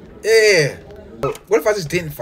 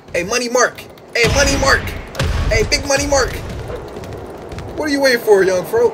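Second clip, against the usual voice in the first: taunting call; 4 semitones higher than usual. Real, not acted. Taunting a rival, building.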